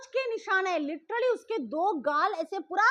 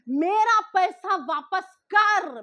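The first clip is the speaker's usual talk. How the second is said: slow, louder mock yell; ghost's angry yell; 6 dB louder, much slower than usual. Ghost yelling at the sleeping wife for his money, slow loud mock yell. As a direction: drag the demand out like a furious ghost. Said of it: "गला फाड़ के एकदम गुस्से में चिल्ला रहा है".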